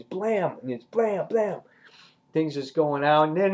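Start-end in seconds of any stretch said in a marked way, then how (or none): 0.0-0.6 higher-pitched spoken gun blast; one punchy mouth-made shot; imitated gunshot. Reviewer mimics the group blasting zombies, punchy gunshot noise. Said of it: "they're just blasting". 0.8-1.6 high, punchy spoken blasts; quick mouth-made gun shots; imitated gunshots. Reviewer mimics the group blasting zombies, punchy gunshot noises. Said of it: "they're just blasting".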